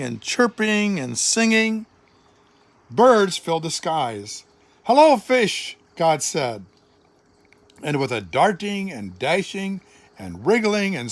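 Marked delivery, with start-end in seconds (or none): 4.8-5.8 joyful greeting. A narrator's reading. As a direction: call the land out with delight. God greets creation joyfully.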